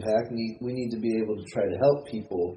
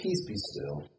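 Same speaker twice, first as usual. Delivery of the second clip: calm command; 3 semitones lower, 8 dB quieter, slower than usual. Retold or imitated. Jesus calms the storm.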